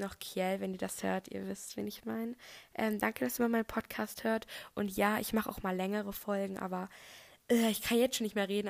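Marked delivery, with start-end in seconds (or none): 2.7-8.7 tired, breathy rasp. Real, not acted. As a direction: talk through a worn-out voice. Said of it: "I'm sorry für diese Stimme".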